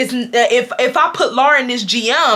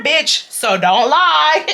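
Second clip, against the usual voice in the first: laughing comeback; 3 semitones higher, much slower than usual. Retold or imitated. Laughs while quoting own comeback.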